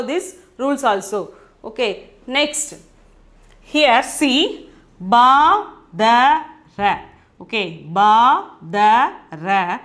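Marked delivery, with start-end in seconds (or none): 5.0-9.8 "ba, da, ra" as three separate syllables; letter by letter. Shown as a demonstration. Teacher reads the written letters, each syllable apart. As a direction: spell out "ba, da, ra" with no n. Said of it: "But the pronunciation is bandar".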